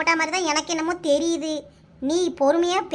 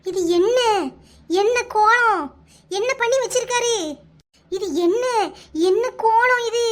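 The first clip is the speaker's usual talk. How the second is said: shocked exclamation; 3 dB louder than usual. Acted. Neighbour shocked by photo.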